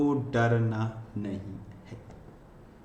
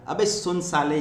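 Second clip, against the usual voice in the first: mock rough insult; 4 semitones higher than usual. Shown as a demonstration. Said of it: "गाली दो यार".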